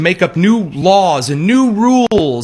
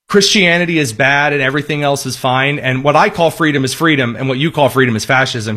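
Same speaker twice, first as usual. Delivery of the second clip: normal talking voice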